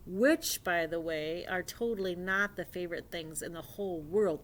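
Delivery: animated, emphatic read-aloud; lively storyteller lifting key words; storybook reading. Acted. Reading a dinosaur fairy tale to young friends, animated storybook reading.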